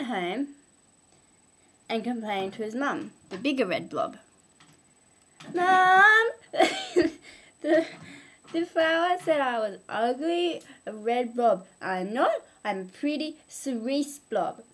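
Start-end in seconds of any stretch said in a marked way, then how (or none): 5.5-14.6 put-on whiny child. Child blob complains to his mum.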